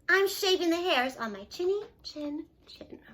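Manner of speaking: breathy whisper of a pig. Acted. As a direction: hush it through the door. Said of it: "He yelled back".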